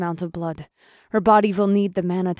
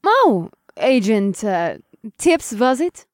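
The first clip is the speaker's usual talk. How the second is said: higher, slow, mocking feigned forgetfulness; smirking; 11 semitones higher, 5 dB louder, slower than usual. Sorceress mocks the agent by mangling her name, smirking. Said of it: "She smirked at Till".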